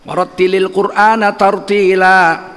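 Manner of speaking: slow, measured tartil chant; Quran recitation. Acted. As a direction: chant the verse slowly and reverently.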